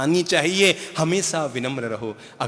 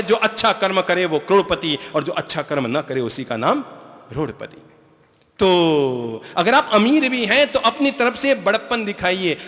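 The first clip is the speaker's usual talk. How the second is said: ordinary talk, nothing marked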